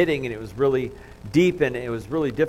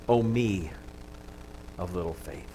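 quiet; 4 semitones lower, 5 dB quieter than usual. Acted. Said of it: "said to himself".

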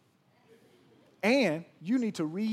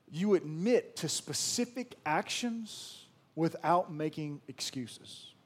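slow deliberate statement; slower than usual. Shown as a demonstration. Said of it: "repeated point".

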